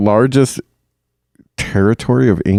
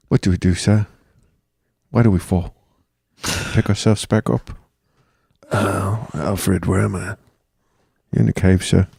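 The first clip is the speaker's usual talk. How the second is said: put-on New Zealand accent; 4 dB quieter than usual. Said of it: "New Zealand accent I've heard you do".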